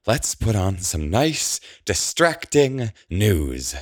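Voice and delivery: high, impatient, stretched-out words; strained, irritable forced niceness; testy. A narrator's reading. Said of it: "she says testily".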